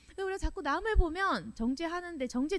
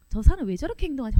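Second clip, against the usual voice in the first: fast, loud irritated question; mock the irritated onlooker; louder, rushed annoyed muttering; annoyed grumble; 8 dB louder, much faster than usual. Preacher voices annoyed inner complaint.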